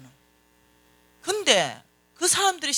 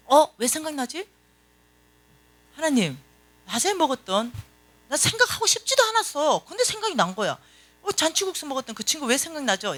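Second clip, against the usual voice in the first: questioning; 5 semitones higher than usual. Retold or imitated. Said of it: "질문해야 돼".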